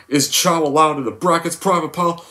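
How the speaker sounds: high, barking drill sergeant voice; Sergeant Hartman. Retold or imitated. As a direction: yell at the recruit from above. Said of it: "How does the scene go?".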